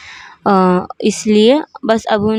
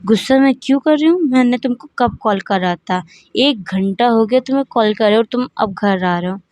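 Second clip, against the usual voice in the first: angry mom. Acted. Mother scolds her late son, fast and indignant. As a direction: snap back at him like an irritated mother.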